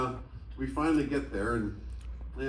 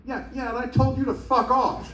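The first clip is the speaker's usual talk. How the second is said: much higher, louder, laughing retort; laughing mock shout; 11 semitones higher, 4 dB louder than usual. Drummer snapping back at a singer, laughing mock shout. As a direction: yell back, half laughing.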